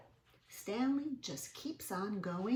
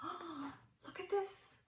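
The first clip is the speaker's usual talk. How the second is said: high gasped discovery; surprised gasp; 11 semitones higher, 5 dB quieter than usual. Acted. Showing the children the scribble, gasping high.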